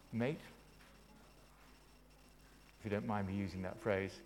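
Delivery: soft, low, gentle address; respectful, not condescending. Acted. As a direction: say it quietly, as to an equal. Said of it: "treated people with respect, not condescending".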